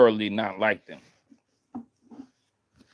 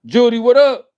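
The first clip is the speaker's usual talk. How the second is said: sudden loud shout; 11 semitones higher, 9 dB louder than usual. Acted. Sudden outburst greeting.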